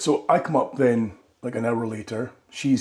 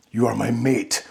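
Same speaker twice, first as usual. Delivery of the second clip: sultry mate line. Retold or imitated. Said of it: "beautiful, sultry, passionate".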